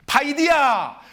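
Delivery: fond call of the word 파이디야, falling gently; loving call. Shown as a demonstration. Pastor showing how a father calls his child lovingly. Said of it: "굉장히 사랑스러운".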